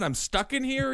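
mock trapped prisoner; imitating Charles Manson's cameo. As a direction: echo the sung cameo in a put-on voice. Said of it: "Charlie even got a little cameo".

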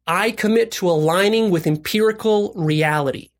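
slow, measured pledge; deliberate recitation. Shown as a demonstration. Coach modelling a commitment for listeners, deliberate recitation. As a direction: say it slowly for others to repeat.

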